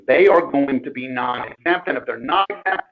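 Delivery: choppy, glitchy phone line; breaking up audio. Real, not acted. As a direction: voice cutting in and out over a bad connection. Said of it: "Your audio is breaking up a little bit more".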